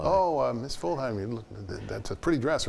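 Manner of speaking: retold nervous flattery; imitating a flustered colleague. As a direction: stall nervously with compliments. Lou stalls with flattery.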